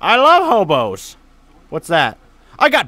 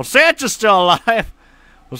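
usual speaking voice

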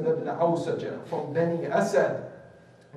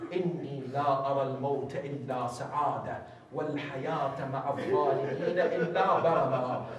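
rapid recitation; 3 semitones lower, much faster than usual. Acted. Arabic quote recited fast.

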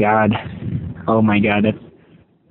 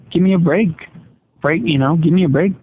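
exasperated outburst; 6 semitones higher than usual. Acted. Exasperated boss complaining.

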